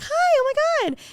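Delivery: very high mock squeal of greeting; excited greeting. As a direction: squeal it, imitating your delighted self. Retold excited greeting to new friend.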